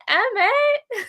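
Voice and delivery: high, pleading call of his name; sympathetic call. Retold or imitated. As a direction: call out to him, feeling for him. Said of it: "and I'm just like".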